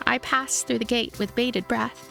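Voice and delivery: usual speaking voice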